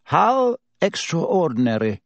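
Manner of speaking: note of amusement. A narrator's reading. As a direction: feign innocent surprise, privately amused. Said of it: "a note of amusement in his voice".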